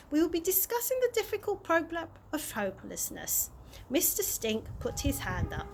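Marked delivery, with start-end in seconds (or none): 0.1-3.5 higher, smooth TV presenter read; lightly voiced presenter announcing. A narrator's reading. Presenter introducing the next topic to the audience, smooth broadcast tone. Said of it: "he said".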